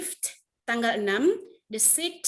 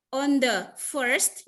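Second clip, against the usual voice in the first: slow model reading; much slower than usual. Shown as a demonstration. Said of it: "perhatikan baik-baik".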